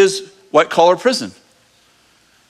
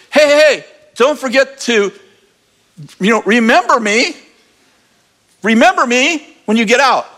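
calling after him; 5 semitones higher than usual. Pretend. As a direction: call out so he hears you before he goes. Joe calling after departing cupbearer.

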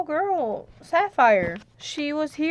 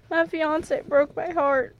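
higher, slow tearful voice; crying; 4 semitones higher than usual. Acted. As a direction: speak through the tears. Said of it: "Why are you crying?".

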